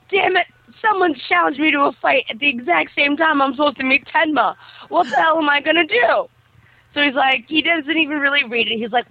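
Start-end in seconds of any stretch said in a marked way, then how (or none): 0.1-6.3 mildly exasperated quote, pitched up. Retold or imitated. Retelling a boy's dilemma to a friend, exasperated. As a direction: act out a flustered boy's complaint. Retelling Kenji's panicked reaction.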